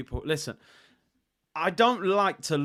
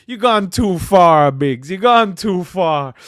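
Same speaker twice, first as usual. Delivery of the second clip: laughing self-rebuke; 11 dB louder, slower than usual. Real, not acted.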